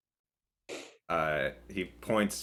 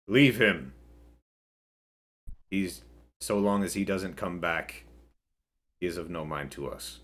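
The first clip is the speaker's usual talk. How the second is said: booming voice; 3 dB louder than usual. Acted. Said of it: "booming voice cut through".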